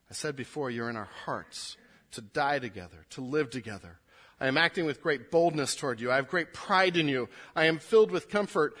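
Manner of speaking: warm tone. Shown as a demonstration. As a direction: read it as a loving reconciliation. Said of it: "Did you catch the tone as we read it".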